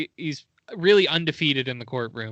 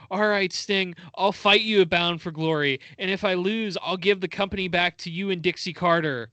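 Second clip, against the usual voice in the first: mild mock yell; 4 semitones higher than usual. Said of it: "And he yells".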